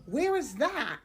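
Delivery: high, slow, drawn-out question; exaggerated polite curiosity, high and slow; curious inquirer. Shown as a demonstration. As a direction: model an interested question, pitched well up. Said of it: "just ask questions, inquire, ask".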